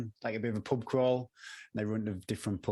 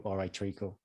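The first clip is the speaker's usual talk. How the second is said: lightly done Cockney greeting; a hint of a Cockney accent; 3 semitones lower, 4 dB quieter than usual. Shown as a demonstration. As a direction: try a casual Cockney. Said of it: "I can only do Cockney".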